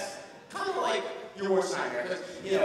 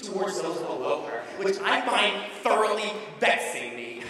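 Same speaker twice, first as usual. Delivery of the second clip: pompous wordsmith voice. Retold or imitated. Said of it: "they turn into, like, William Wordsmith".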